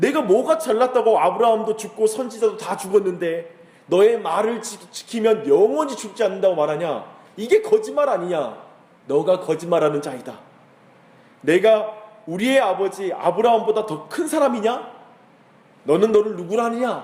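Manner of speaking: indignant, challenging, accusing tone.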